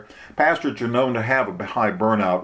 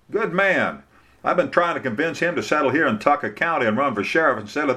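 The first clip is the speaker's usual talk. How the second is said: higher-pitched, chatty small-town lawyer; Bubba; 5 semitones higher than usual. Acted. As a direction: plainspoken lawyer sharing his opinion, pitched up.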